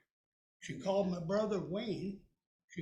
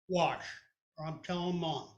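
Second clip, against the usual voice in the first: louder curt threat; sister threatening; 2 semitones lower, 4 dB louder than usual. Retold or imitated. Sister threatening to tell mom. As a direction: warn him sharply.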